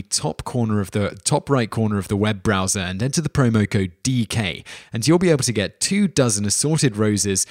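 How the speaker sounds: casual, upbeat podcast host pitch; sponsor ad read. Acted. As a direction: sell the offer to listeners like a chatty host. Reads a sponsor ad.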